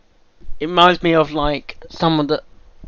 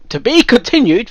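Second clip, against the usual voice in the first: higher, louder mock cliffhanger with a laugh; laughing sign-off; 8 semitones higher, 6 dB louder than usual. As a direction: parody the narrator's ending. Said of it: "mock dramatic sign-off".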